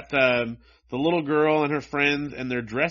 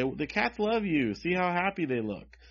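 put-on kids in comic; 6 semitones higher than usual. Voices kids cooing at the dog.

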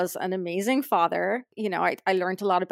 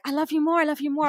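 higher-pitched, imitating loving insistence; affectionate insisting; 7 semitones higher, faster than usual. Star insisting to his fans, affectionately. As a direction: act out his eager declaration of love. Playful back-and-forth of affection.

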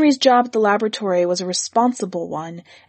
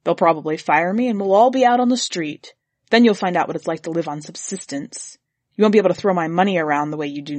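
gloomy relish; 3 semitones lower, faster than usual. Acted. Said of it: "He said with gloomy relish".

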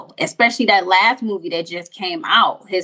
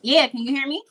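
underwater voice; 6 semitones higher, 3 dB quieter, faster than usual. Real, not acted. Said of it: "Why you sound like you underwater?".

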